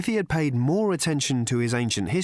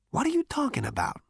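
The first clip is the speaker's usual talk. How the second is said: cocky Zaphod voice; 13 semitones higher than usual. A narrator's reading. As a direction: taunt the robot, full of swagger.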